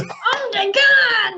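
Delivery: high, loud, stretched-out mock Dutch; hammed-up Dutch cry, drawn out; mock Dutch echo. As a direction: echo it big in a pretend Dutch accent. Echoes the mock-Dutch reading, loudly.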